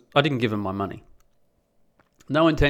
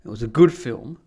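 mocking defender; 8 semitones higher, 6 dB louder than usual. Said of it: "they go".

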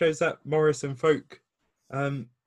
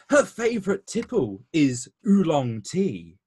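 announcer voice. Acted. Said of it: "real sort of, like, announcer voice".

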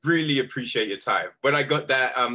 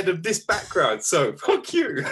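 laughing mock comeback, pitched up; higher, jokey retold defiance; retold retort; 5 semitones higher than usual. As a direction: end the playful rebuttal on a laugh. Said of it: "I'm like".

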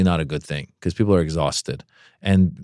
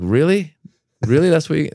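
incredulous; 8 semitones higher, 3 dB louder than usual. Retold or imitated. Disbelief at bad intro.

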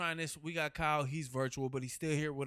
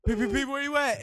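calling out; 9 semitones higher, 9 dB louder than usual. Real, not acted. Calling out to absent host.

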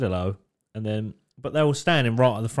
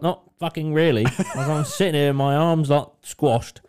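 laughing through the words; a laughing mock grumble; laughing as you complain about being squashed; laughing retold complaint; 3 semitones higher, 3 dB louder than usual.

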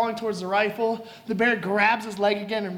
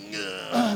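straining groan. Acted. Acting Glass straining not to blink.

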